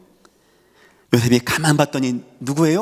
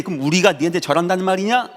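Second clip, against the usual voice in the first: higher, sneering brothers' taunt; mocking brothers; 5 semitones higher than usual. Brothers taunting Joseph, higher sneering taunt. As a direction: jeer at the dreamer brother. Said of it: "그것 때문에 형들이".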